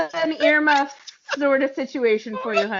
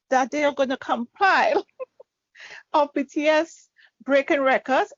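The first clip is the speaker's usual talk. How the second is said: choked up; 5 semitones higher than usual. Real, not acted. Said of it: "Sorry, I'm choking over here".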